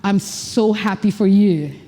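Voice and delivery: calm, grounded happiness; different power. Shown as a demonstration. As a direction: settle it low and slow. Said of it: "That's a different power".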